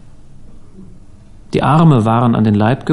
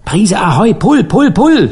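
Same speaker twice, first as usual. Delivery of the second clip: high-pitched sailor's hauling cry; shouting; 7 semitones higher than usual. A narrator's reading. Dan hauling up the catch with his friend, shouting. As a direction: call out the haul, pitch leaping on each pull. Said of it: "schrie Dan".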